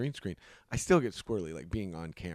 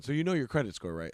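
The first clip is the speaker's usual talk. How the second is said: car salesman voice; 4 semitones higher, 5 dB louder than usual. Acted. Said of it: "the car dealership guy going".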